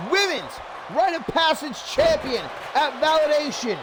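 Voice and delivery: big match-call delivery, key words stretched; punchy wrestling announcer; excited play-by-play. Real, not acted. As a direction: sell the moment like a wrestling commentator. Live play-by-play.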